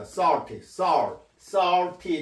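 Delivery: SALTY with a vowel midway between O and I. Shown as a demonstration. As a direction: say "salty" with an open o-ah blend, sar-ti. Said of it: "O와 I의 중간 발음입니다".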